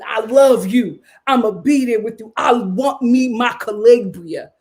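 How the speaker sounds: lightly voiced childlike vows, a bit loud; childlike Edmund. Recapping the wedding, imitating Edmund's childlike vows lightly. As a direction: mimic a clingy grown man like a child. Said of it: "He's so childlike".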